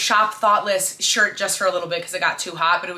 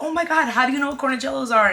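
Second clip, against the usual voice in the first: thrilled gush; 6 semitones higher, faster than usual. Retold or imitated. Thrilled at friend's necklace.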